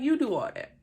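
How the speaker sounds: high, sarcastic mock of a fed-up twin; Fallon, fed up. Fallon snapping at the group over the record, high mock sarcasm. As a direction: toss the whole record back at them, mocking. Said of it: "She's like".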